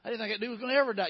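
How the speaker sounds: hammed-up fast relieved exclaim; mock relief. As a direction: blurt it out fast like a joke. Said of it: "celebrating like".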